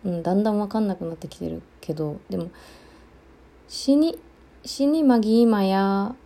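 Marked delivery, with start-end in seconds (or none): 3.7-6.1 死にマギーマや, 死に started high, rest slow; slow Okinawan 死にマギーマや, first 死に pitched up; Okinawan dialect variant. Shown as a demonstration. Offering another version of the phrase, in Okinawan dialect. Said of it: "でもいいかな".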